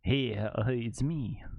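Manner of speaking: badly faked Russian accent; shaky attempt at a Russian accent. Shown as a demonstration. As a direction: try a light Russian accent. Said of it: "That's my Russian accent".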